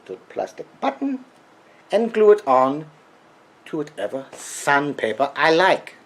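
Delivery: put-on Freudian accent. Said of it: "this crazy Freudian accent".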